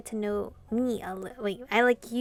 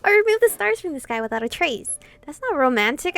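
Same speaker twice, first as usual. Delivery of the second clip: almost yelling in disbelief at the absurd offer; incredulous shout; 5 semitones higher, 10 dB louder than usual. Real, not acted. Gamer shouting at the demon king's offer, loud and incredulous. Reacting to destroying the sun.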